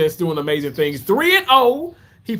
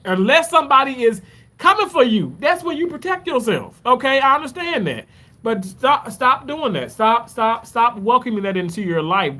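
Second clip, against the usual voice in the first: urgent raised plea; 6 semitones higher than usual. Real, not acted. Urging viewers to stop violence.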